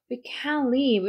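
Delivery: "can" given full stress, then "live" stressed too; stress on both CAN and LIVE. Shown as a demonstration. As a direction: lean on "can" and "live" alike, as in can't. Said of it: "이렇게 하면은 우리는 살 수 없어가".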